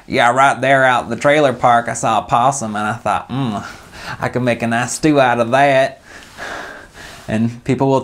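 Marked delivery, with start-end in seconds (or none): 0.1-6.0 a Southern redneck bragging about possum stew. Shown as a demonstration. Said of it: "there's the Southern redneck".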